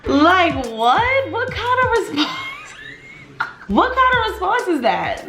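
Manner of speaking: very high, squealing through laughter; words breaking up into real laughter; helpless laughter. Real, not acted. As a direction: crack up in disbelief while asking. Cracking up at the reply.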